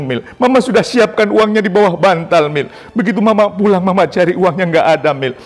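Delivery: high, loud, anguished shouting; mother's shout. Retold or imitated. Mother shouting at her son about the lost money. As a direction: yell it out like a wounded mother. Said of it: "ibu saya berteriak".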